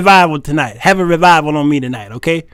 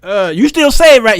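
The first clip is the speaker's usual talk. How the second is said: church mother; 5 semitones higher, 4 dB louder than usual. Retold or imitated. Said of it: "They're like".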